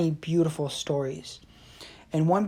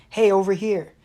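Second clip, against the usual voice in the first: small voice; 4 semitones higher, 6 dB louder than usual. Retold or imitated. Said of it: "he heard a small voice".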